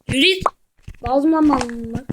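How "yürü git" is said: "Yürü git" shouted high and louder; yelled urging. Real, not acted. Gamer urging his character on, high and loud.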